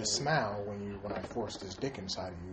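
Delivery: low, very soft celebrity impression; mock confession, quietly in character; Bill Cosby. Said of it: "raping and talking like that".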